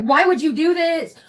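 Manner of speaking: high, drawn-out imitation of upset pleading; slow wail, mimicking a distraught caller. Upset man on the phone to the driver, imitated as upset. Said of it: "Doug was so upset".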